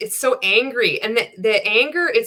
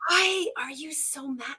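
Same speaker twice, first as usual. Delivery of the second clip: baffled; 5 semitones higher, 8 dB quieter than usual. Real, not acted. Baffled at the angry clip.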